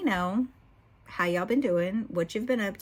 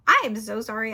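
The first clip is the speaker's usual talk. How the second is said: tearful apology; 3 semitones higher, 7 dB louder than usual. Real, not acted. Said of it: "I just started blubbering".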